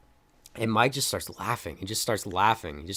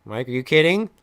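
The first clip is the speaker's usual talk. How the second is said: rising, louder demand; mock angry demand; 8 semitones higher, 8 dB louder than usual. The others demanding answers from Mike, mounting anger. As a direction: press harder each time, building anger. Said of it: "they even asked that".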